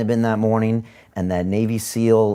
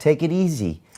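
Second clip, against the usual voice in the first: a touch of soothing mom, pitched up; mama voice; 6 semitones higher than usual. Acted. Host plays mom telling him to relax, mama voice. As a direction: lightly play the indulgent mother. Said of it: "That's the mama voice".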